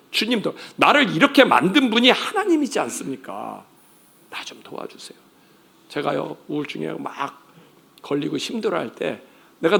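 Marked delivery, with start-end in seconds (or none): 4.3-5.2 a soft unvoiced plea; whispered plea. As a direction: whisper it like a quiet prayer. Praying for help.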